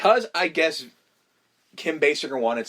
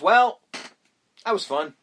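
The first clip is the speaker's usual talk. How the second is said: Jack Nicholson being Jack; 3 semitones lower than usual. Retold or imitated. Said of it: "he just sort of goes".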